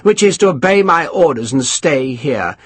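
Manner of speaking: a touch of irritated officer; mildly irritated colonel; irritable colonel. Acted. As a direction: dismiss him impatiently. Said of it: "said irritably".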